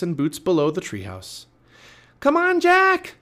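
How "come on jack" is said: very high, loud urging yell; shouted. A narrator's reading. Annie urging Jack up the ladder, shout. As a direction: yell for him to get moving. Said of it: "Annie shouted".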